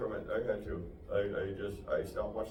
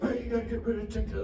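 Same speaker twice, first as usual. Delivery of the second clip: mock yell, pitched up; yelling roommate; 11 semitones higher, faster than usual. Roommate warning about TikTok in a raised mock yell. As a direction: bark it like the conspiracy roommate. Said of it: "That's how he talks. He yells everything he says".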